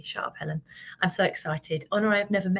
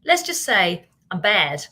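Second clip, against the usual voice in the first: mock bad girl; 3 semitones lower, 4 dB louder, slower than usual. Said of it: "I might be banned on LinkedIn soon".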